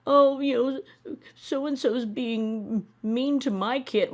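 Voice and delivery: high, slow whiny mock mother. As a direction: mimic a whining mom, dragged out. Mocking mother complaining about siblings.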